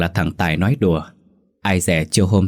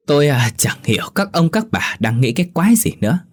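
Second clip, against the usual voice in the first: put-on higher-pitched, slurring drunkard; drunken slur; 3 semitones higher than usual. A narrator's reading. Drunk villager scoffing at the elders, in a higher slurred voice. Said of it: "Nó nói bằng cái giọng lè nhè".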